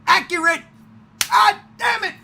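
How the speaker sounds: high loud laughing rave; high excited rave; hyped shout. Real, not acted. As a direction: gush like an overjoyed fan. Hype about Gambit cameo.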